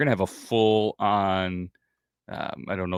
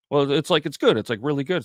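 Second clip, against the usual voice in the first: put-on kid explaining; 8 semitones higher, 5 dB louder than usual.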